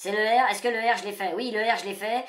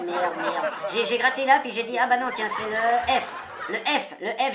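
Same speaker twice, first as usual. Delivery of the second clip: laughing at himself; slower than usual. Real, not acted. Laughs at his own mistake.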